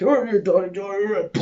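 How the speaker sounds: high-pitched, garbled Cockney send-up; mock Cockney. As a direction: gabble it as an exaggerated Cockney. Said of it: "I wouldn't be like".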